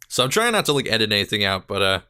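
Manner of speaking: slightly breathless talk; talking short of breath. Real, not acted. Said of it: "I'm already getting out of breath".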